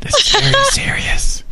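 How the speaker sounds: high hammed-up shout of seriousness; mock serious shout. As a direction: shout it with fake gravity. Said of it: "Stop it!".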